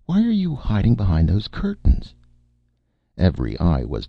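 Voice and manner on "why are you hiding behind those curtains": higher-pitched, smiling question; bright smile. A narrator's reading. DeeDee asking Nick about his hiding place, brightly. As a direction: ask it innocently through a smile. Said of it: "with a bright smile".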